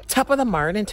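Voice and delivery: high-pitched Irish greeting; Irish accent. Shown as a demonstration. Starting an accent challenge, Irish accent. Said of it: "let's get on to Irish".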